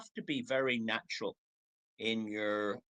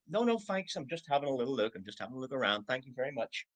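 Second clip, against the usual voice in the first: polite brush-off. Retold or imitated. Shopper brushing off a salesperson.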